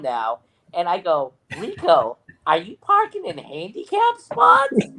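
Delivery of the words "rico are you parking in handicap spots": high incredulous call-out, drawn out; retold yelling. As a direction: imitate yourself calling someone out, pitched way up. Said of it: "I'm yelling at him".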